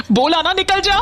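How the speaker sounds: mother ordering her son out of the house; furious order. Acted. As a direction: throw him out with fury.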